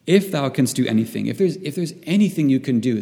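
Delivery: mild, insistent plea on the man's behalf; retold pleading. Preacher voices a father begging Jesus for his son, mildly pleading. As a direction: plead earnestly, without full desperation. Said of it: "this man is pleading".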